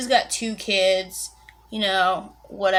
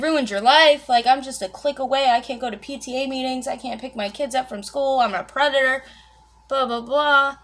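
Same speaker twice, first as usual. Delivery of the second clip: indignant retort; 4 semitones higher, 5 dB louder than usual. Retold or imitated. Teacher retorts in argument.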